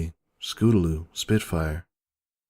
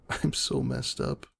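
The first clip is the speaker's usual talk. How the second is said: whispered mutter, slow; 7 semitones lower, 8 dB quieter, slower than usual. A narrator's reading. Pony muttering to herself in shame, whispered. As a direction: breathe it out under your breath. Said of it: "I muttered".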